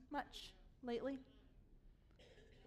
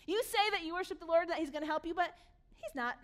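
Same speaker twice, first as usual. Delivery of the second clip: raised, taunting enemy voice; mock shouting; 5 semitones higher, 6 dB louder than usual. Enemy taunting Hezekiah's leaders before Jerusalem, mildly shouted. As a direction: challenge them in a mild acted shout. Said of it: "the enemy starts shouting at them".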